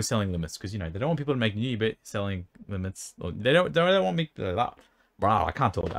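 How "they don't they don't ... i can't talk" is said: talking with a dry mouth; tongue sticking from a dry mouth. Real, not acted. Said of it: "My mouth gets so dry".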